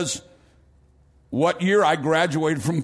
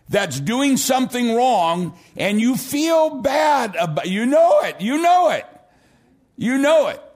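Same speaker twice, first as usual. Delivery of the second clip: rising preached shout; 4 semitones higher than usual. Real, not acted. Preacher pressing the crowd, then shouting.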